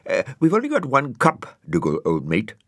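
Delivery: high, chirpy snail voice; a cheery little snail squeaking up; Brian the snail. Acted. Brian telling Dougal they have one cup, high and chirpy.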